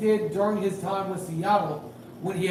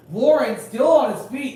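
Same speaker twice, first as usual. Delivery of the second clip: excited call; 4 semitones higher, 6 dB louder than usual. Real, not acted. Live catch and run call.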